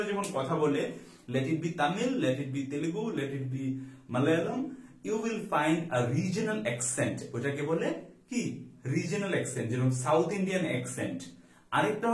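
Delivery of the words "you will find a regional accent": slow dictation. Shown as a demonstration. Teacher reads example sentence slowly.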